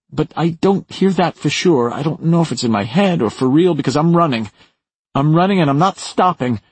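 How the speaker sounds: high, breakneck-feeling urgent confession; frightened Maura. Acted. Maura unsure what she heard while running, high and panicky.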